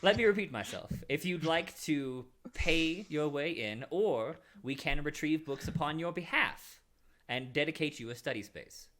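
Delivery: lightly voiced stern clerk; a hint of a patient official repeating terms; firm librarian. Librarian repeating terms to the visitor, firm.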